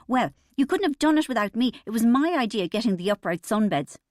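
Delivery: high and loud, claiming the credit; shrill indignant wife. A narrator's reading. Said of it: "her voice unexpectedly shrill".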